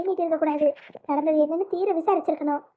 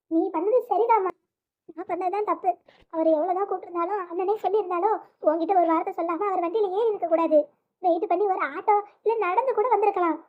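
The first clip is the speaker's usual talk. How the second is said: on the verge of tears, slightly raised voice; tearful apology. Acted. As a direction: apologise to mother through tears. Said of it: "அழுவாதம்மா அழுவாத". (அழுகையோடு மன்னிப்பு கேட்பது)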